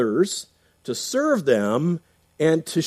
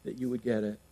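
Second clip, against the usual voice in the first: lamenting, weeping. Retold or imitated. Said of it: "he's saying".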